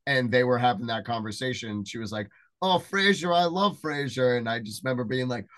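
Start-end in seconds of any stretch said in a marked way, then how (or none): 2.6-4.4 higher-pitched mock gushing; gushing fan. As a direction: imitate a fan declaring her love. Retelling a fan's delighted reaction.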